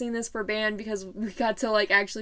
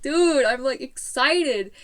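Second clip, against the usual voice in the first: higher and louder, stretching out excited slowly; 4 semitones higher, 4 dB louder, slower than usual. Retold or imitated. Answering the jock guy at the assembly, excitedly. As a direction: burst out, then drag the word out.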